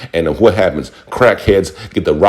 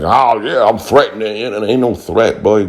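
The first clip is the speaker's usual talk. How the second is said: mock tough boast; 4 semitones higher, slower than usual. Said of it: "Notice I wasn't like".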